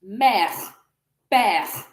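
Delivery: "Mère, père" each falling on an open è; soft French e. Shown as a demonstration. Teacher shows the E is also soft, open è. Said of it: "So the E is also soft".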